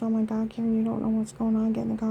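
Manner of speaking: mock a panicky man hurrying her; frantic husband. Mimicking her husband urging her into the car, panicky.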